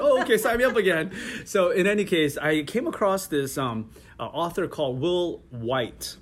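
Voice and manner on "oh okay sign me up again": quick, higher, laughing mock glee; mock delighted. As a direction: toss it off with a laugh, fast and bright. Mock delighted reaction to sale ad.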